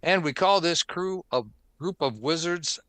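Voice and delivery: scripted announcer read, punchy openings to phrases; podcast host intro. Acted. Host opens the Forums edition for listeners, announcer intro. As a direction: welcome listeners in like a show host.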